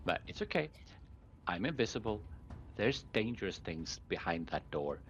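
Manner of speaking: softened in-character caution, easing downward; gently calm them and hold them back; soft reassurance. Acted. Craren warning Zindra of danger behind the door, softly. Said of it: "ever so softly, just saying".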